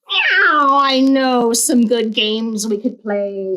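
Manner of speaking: a light meow into a slow coaxing tease; playful cat voice. Acted. Cat in the Hat tempting the children. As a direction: lure the kids in slowly. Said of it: "said the cat".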